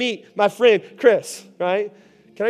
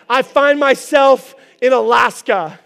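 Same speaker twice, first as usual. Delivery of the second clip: laughing; 4 semitones higher, 7 dB louder than usual. Real, not acted. Dreams of mission, laughing.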